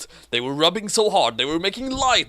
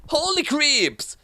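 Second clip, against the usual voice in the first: like his mom; 14 semitones higher, slower than usual. A narrator's reading. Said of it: "Dark said like his mom".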